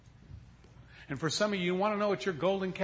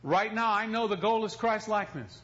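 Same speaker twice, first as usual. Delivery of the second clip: exasperated prayer; 6 semitones higher than usual. Retold or imitated. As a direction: pray at God in mock frustration. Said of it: "went back there and said".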